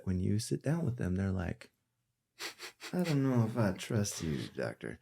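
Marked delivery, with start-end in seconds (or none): 2.9-5.0 put-on Southern accent. Utah patient doubting the doctor, in a put-on Southern accent. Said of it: "went into a Southern accent".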